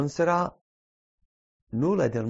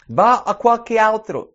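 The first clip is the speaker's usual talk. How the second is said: higher, louder, slow dismissive line; mock brush-off; 7 semitones higher, 9 dB louder than usual. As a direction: parody a wrong answer. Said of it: "Non dice quello".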